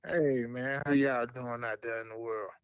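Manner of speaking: Southern country drawl from Birmingham; country accent. Real, not acted. Guest greets podcast listeners, country accent. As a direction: greet them in a real Alabama country accent. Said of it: "Y'all hear that country accent?".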